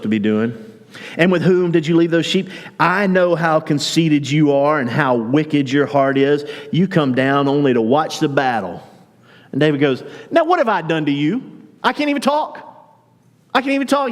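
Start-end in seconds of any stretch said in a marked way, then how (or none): 1.2-8.8 scolding brother. Retold or imitated. Eliab burning with anger. 10.3-14.1 put-on high, exasperated kid-brother whine; whiny protest. David protesting to his older brother, in a high exasperated whine.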